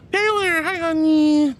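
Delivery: high, loud, emotional hello; high squealed greeting, almost crying; excited greeting. Real, not acted. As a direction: welcome her with a near-tearful squeal. Excited greeting of arriving viewer.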